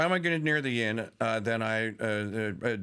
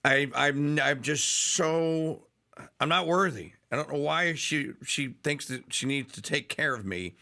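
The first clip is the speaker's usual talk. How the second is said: close to tears; 3 semitones higher than usual. Real, not acted. Host humbled by Mary's care for him, choked up. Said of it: "now I'm gonna start bawling like you".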